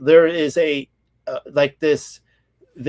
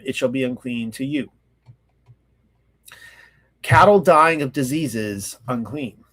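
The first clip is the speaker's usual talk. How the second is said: measured, formal reading aloud; solemn recital of ancient law; scripture reading. Real, not acted. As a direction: read out the law, phrase by phrase.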